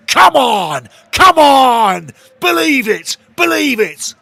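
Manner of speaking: over-the-moon fan shouting; celebratory roar. Real, not acted. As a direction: bellow it at the screen. Roaring after the goal.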